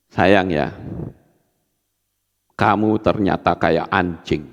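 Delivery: calm quiet voice with a sting in the words; said softly. Shown as a demonstration. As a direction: insult him in a gentle murmur. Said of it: "saya ngomongnya pelan loh ini".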